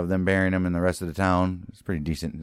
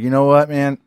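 lightly voiced complainer, a bit raised; Mister Garrett; 4 semitones higher than usual. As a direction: recount your troubles in a mock-earnest voice. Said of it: "Then you got Mister Garrett comes back home".

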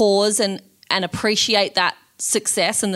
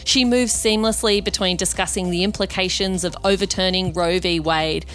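scripted host introduction, neatly phrased; podcast intro read; 2 semitones lower than usual. Real, not acted. Host introducing the weekend guest to listeners, scripted intro read. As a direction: read it as a polished show opener.

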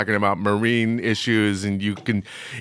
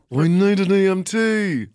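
mock crew call; 7 semitones higher than usual.

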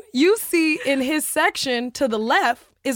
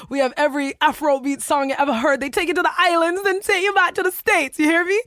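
fast, rising hype; excited; 4 semitones higher, 3 dB louder, faster than usual. Real, not acted. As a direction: build the party energy fast. Hyped party description.

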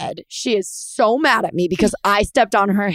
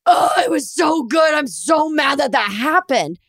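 upset; 5 semitones higher than usual. Retold or imitated. Retelling partner's upset after the wide.

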